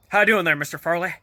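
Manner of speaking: lightly imitated confident Southern accent; goofy Southern accent. Jack introduces himself to Mister Furley as Austin, mock Southern accent. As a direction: put on a cocky, goofy Southern twang. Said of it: "he does this goofy Southern accent, acts real confident".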